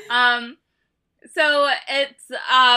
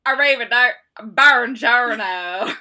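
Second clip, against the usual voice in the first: put-on loud, slow hick-accented Italian; hammed-up American hick drawl on Italian; 7 dB louder than usual. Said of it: "fucking hick accent".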